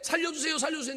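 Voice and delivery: high, loud, quick plea for life; acted begging cry. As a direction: cry out mock-desperately to be spared.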